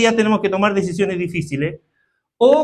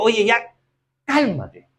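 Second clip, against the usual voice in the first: a parent soothing a son, ever softer; calming a child; 6 dB quieter than usual. Retold or imitated. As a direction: settle a child down, softer each phrase. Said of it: "Lo que una vez se le dice al hijo".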